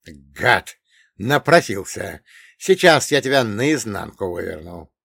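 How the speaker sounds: loud furious outburst; angry threat. Acted. Provoked gunman about to beat the dwarf, angry threat. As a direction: burst out loudly, enraged.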